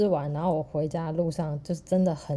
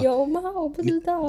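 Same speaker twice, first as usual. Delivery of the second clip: surprised; 12 semitones higher than usual. Real, not acted. Hearing cohost's elevator story, surprised high disbelief. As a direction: react like you've never heard of this.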